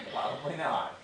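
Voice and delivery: chuckling through the words; laughing. Real, not acted. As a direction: let a laugh spill into it. Laughing at own joke.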